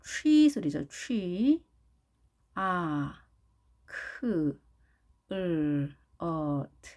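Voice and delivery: each English sound of chocolate alone, from "취" to "트"; isolated phonemes with gaps for learners; sound-by-sound demo. Shown as a demonstration. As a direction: break it slowly into "취", "아", "크", "을", "어", "트". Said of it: "그렇게 발음하는지 볼까요".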